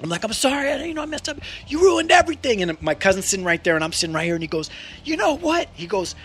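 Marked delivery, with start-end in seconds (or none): 0.2-2.6 a hint of sheepish kid. Kid apologizing to father. 5.0-5.7 a hint of stern father. Father about to sentence.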